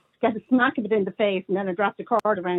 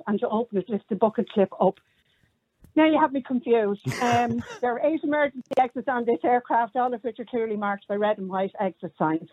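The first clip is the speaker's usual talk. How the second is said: flight attendant. Pretend. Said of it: "Do the whole thing".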